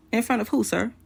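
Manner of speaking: mildly affronted retort; retold indignant challenge. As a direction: act out challenging him on the phone. Her retort in acted phone quarrel.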